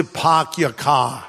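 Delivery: mock Boston accent, dropped r's. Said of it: "you must be from Boston".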